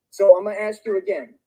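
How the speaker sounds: lashing out in anger; angry rant. Real, not acted. Angry rant at girlfriend on stream.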